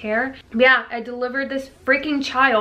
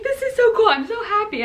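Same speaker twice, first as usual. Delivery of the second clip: high, bubbly laughter through the words; laughing giddy; 11 semitones higher than usual. Retold or imitated. Mom tells what she said holding baby, laughing and giddy. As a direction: laugh it out, thrilled. Retelling her joy after delivery.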